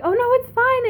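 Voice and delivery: high-pitched, gushing "don't worry"; imitated reassurance. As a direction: wave away the apology in a high voice. Band reassures apologetic fan.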